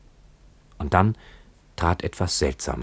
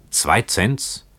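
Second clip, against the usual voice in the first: disbelieving question, higher on zwei; shocked echo; 5 semitones higher than usual. Acted. Keawe echoing the price back, shocked. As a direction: throw the price back in alarm.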